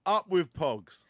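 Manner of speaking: high, loud protest slogan; mock rally cry. Rallying co-host against Pokemon for Pogs, mock protest. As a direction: chant it like a demonstrator.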